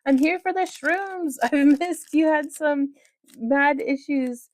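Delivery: lightly voiced high little figure; voiced character. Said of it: "He says".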